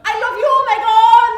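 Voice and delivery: high, shouted mock-French declaration; bad French accent. Frenchman grabbing the woman he pursues, shouted French accent. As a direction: bellow it out in a badly faked French accent. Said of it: "I can't do a French accent".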